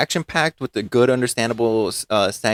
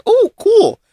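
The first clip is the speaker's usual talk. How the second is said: high-pitched, louder "oh, cool"; retold naive excitement; 8 dB louder than usual. Viewer recalling hearing of the film, mock-impressed. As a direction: act out your hopeful first reaction. Acts out earlier naive enthusiasm.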